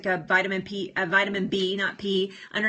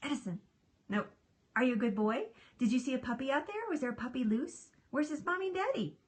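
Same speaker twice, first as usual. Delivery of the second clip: talking to pet; 4 semitones higher, 7 dB quieter, faster than usual. Real, not acted. Owner asking the dog about a puppy outside, soft cooing. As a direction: coo playful questions, softly and higher at the ends.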